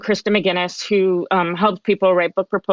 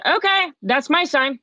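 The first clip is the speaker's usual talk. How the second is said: excited realization; 7 semitones higher than usual. Retold or imitated.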